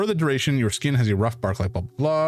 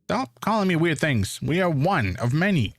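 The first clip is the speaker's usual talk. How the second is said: squeaky ant voice; 6 semitones higher than usual. Acted. Ant character speaks.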